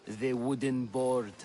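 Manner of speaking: lightly mocking wooden impression, low monotone; slow, level and stiff as a plank; Pericles. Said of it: "my impression of Pericles".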